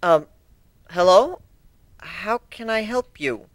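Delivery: a mild, timid uncertainty; startled pony answering a stranger, mildly nervous. Acted. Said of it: "she asked nervously".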